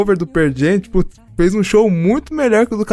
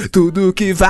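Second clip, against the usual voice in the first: words breaking into a long wail; mock frontman scream; 2 semitones higher than usual. Co-host imitating a rock singer on stage, mock scream. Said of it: "às vezes ele parava gritando".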